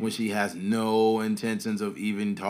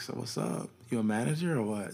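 mock heavy, hardcore flirty come-on tone; 5 dB quieter than usual. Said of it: "he was flirting with her so hardcore".

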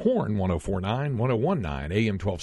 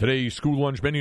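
higher-pitched radio announcer reading voice; 5 semitones higher than usual. Imitating a radio host reading the school lunch menu: Bob Poole deep baritone voice. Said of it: "He had this incredible baritone voice".

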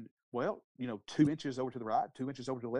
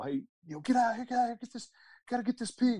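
put-on shrill yelling, pitched very high; 10 semitones higher, 3 dB louder than usual. Retelling calling the kids out to catch a loose pig: imitating someone yelling. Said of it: "yelling at y'all".

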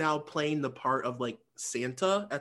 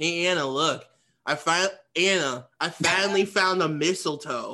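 put-on drunk man voice; 4 dB louder than usual. Retelling a scene where a drunk man finds mistletoe: drunk Howard impression. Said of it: "fucking wasted Howard walks up".

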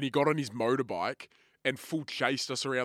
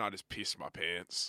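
plain

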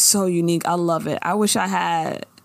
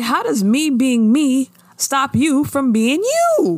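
hurt, wounded tone; 5 semitones higher, 4 dB louder than usual. Retelling what Veretta says to her daughter: imitating Veretta's voice. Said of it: "It's hard for me not to talk like her".

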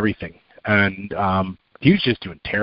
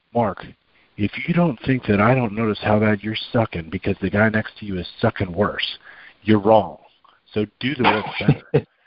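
close, voiced stage whisper. Retelling what a trainer said close to his ear: imitating someone half-whispering. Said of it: "he whispers in my ear".

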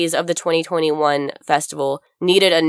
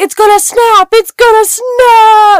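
very high, very loud, shrill, drawn-out bellowed scream; 11 dB louder than usual. Retelling a guy who screamed in your ear at a festival, imitating him screaming. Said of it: "please don't scream in my ear".

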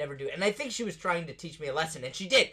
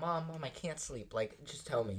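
tearful, crying, pleading voice; 9 dB quieter than usual. Retelling begging Mom after being confronted: imitating own past crying. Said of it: "I started crying".

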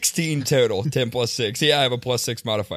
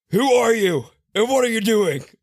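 very high, shrill shout; 11 semitones higher than usual. Acting out a character pinning someone down with a net: yelling in character. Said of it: "And I'm just gonna yell".

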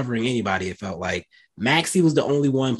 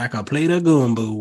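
put-on, attempted New Orleans accent. Speaker breaks off mid-analysis with a quick line, in an attempted New Orleans accent. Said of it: "was that your New Orleans accent?".

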